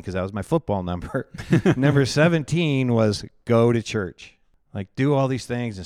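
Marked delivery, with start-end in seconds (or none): 1.5-4.3 real laugh running into the words, slower and louder. Real, not acted. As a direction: chuckle through the memory of the list. Recalls his own list, amused.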